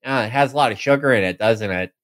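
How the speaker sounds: mildly disgusted, quick mock remark; hurried, understated distaste; retold disgust. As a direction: imitate a politician recoiling from a child's treat. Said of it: "looks at it with disgust".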